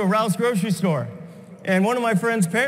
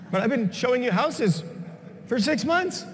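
exasperated whine; 3 semitones higher, 4 dB quieter than usual. Retold or imitated. Buyers bought elsewhere.

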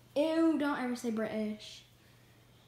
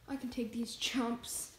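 hushed, slower whispered boast; 4 semitones lower, 6 dB quieter than usual. Acted. Contestant whispering a boast at rivals, hushed and slow. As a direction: whisper the threat to the other team.

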